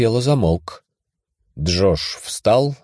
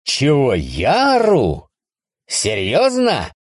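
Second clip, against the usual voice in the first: incredulous outburst; 7 semitones higher, slower than usual. Acted. Incredulous reply.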